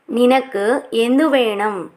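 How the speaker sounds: slow, clear teacher repeat of నినకు ఎందు వేణం; drawn out for learners to copy; slow model repeat. Shown as a demonstration. (నెమ్మదిగా, స్పష్టంగా మళ్ళీ చెప్పడం)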